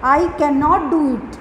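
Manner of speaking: slow, careful example; slow model sentence. Shown as a demonstration. Teacher giving a negative example slowly. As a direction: set each word apart. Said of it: "जैसे कि".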